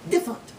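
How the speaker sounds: "Different" said as two syllables; syllable dropped. Shown as a demonstration. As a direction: leave out the middle of "Different". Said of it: "You don't need to say different".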